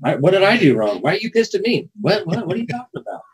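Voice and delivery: high-pitched, put-on hurt pleading; mock bewildered protest. Host acting out someone misreading a text's tone, mock-upset.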